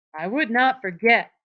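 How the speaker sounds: Lenny loudly denying the rabbit. A narrator's reading. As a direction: insist loudly he wouldn't forget. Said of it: "Lenny said loudly".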